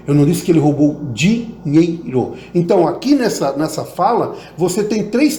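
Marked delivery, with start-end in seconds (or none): 0.1-2.3 the whole line said through, with the weight carried to the end; stress on DINHEIRO. Shown as a demonstration. Teacher's last take of the drill: stress on "dinheiro". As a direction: build toward "dinheiro". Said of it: "se eu disser assim".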